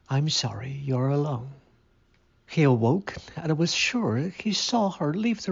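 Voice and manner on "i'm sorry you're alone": gentle whisper. Acted. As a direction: whisper it kindly to a lonely man. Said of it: "she said gently".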